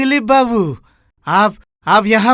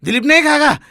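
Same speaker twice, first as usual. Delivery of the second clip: higher-pitched, insistent no; emphatic refusal; 4 semitones higher, much faster than usual. Acted. Master overrules servant on Dilip's food, insistent. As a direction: cut off the objection firmly, pitch raised.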